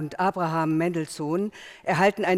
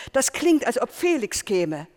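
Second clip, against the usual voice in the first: excited call; 5 semitones higher than usual. Retold or imitated. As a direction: call it out eagerly as if Felix has come. Family calling out together.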